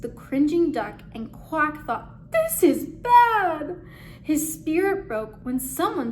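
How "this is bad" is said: dread. Acted. Duck squeezed by the creature.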